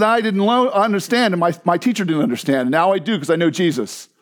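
lightly imitated German accent. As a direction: testify in a put-on German accent. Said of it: "she was a thick German accent".

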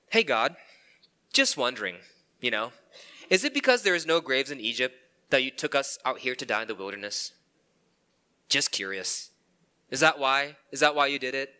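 mock-innocent sarcastic question to God. Israelites sarcastically questioning God in the wilderness, mock-innocent. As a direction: needle God with fake curiosity. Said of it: "You see the sarcasm there?".

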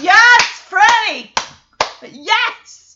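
high, loud imitated cheer; audience cheering. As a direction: whoop it like a thrilled studio crowd. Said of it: "Just cheering".

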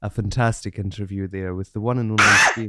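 low, measured outro voice; put-on presenter voice. Shown as a demonstration. Host redoing his outro for co-host, low presenter voice. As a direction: do the presenter sign-off. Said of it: "gonna do it again".

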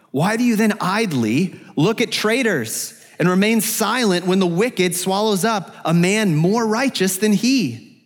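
high-pitched, pleading challenge to God; complaint to God. Acted. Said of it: "shifts from confession to complaint".

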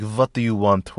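quick mock German accent, V for W; lightly put-on German-French chef accent; vague German accent. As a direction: imitate a foreign chef, somewhere between German and French. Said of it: "Was that French or was that German?".

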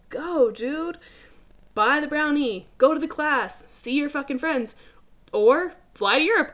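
high, loud, fired-up pep talk; loud and high, cheering them on to go spend; pumped-up yelling. Real, not acted. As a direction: yell encouragement at the viewers like a hype coach. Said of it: "Don't mean to yell at you guys".

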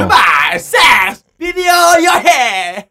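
slow, high announcer shout; game show host shout. Retold or imitated. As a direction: belt it like a TV host kicking off. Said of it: "전창걸처럼".

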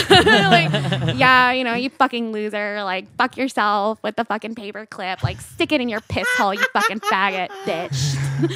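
mock a loser down, loud and valley; valley girl. Shown as a demonstration. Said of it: "can we get a little sample".

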